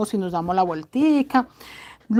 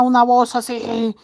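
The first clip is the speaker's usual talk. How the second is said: lightly imitated thick, strong male voice; slow, drawn-out imitation of a big strong voice; gruff husband voice; much slower than usual. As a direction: mimic his heavy, powerful voice a little. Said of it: "tiene una voz gruesa".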